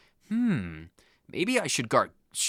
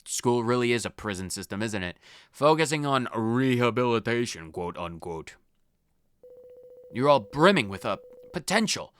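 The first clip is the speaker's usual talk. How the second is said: lightly voiced old headmaster. Lightly voiced headmaster addressing the students about rehabilitation. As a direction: read the headmaster's lines in a light, lowered schoolmaster voice.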